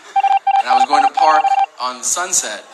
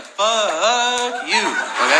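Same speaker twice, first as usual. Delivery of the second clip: hostile retort; 7 semitones higher, much slower than usual. Retold or imitated. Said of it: "he's like".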